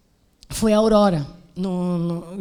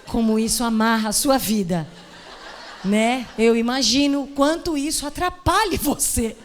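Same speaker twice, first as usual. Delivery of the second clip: playing calm while secretly scared; mock-sympathetic pastor. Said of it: "Aí eu falei".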